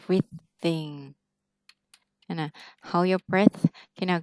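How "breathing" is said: "breathing" slowly, breathe running into in; slow teaching demo of "breathing"; linked pronunciation. Shown as a demonstration. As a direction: say "breathing" as breathe plus in, joined. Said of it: "đọc là".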